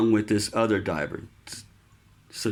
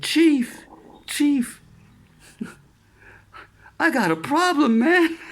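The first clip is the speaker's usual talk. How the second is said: higher, louder urgent call; calling for help; 5 dB louder than usual. Retold or imitated. Sailor with dislocated shoulder calling his chief, urgent shout. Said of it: "And I said".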